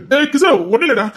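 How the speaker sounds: calling out to Kishore; loud call. Acted. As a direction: call him loudly to stop.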